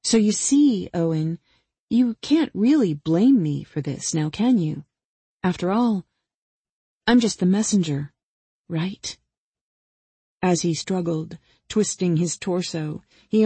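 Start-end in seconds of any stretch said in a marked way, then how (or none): 0.0-9.2 lightly voiced Angela, mock-innocent; taunting killer, mock-reasonable. Killer excuses herself to her victim, mock-reasonable. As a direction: reason with the victim in a teasing lilt.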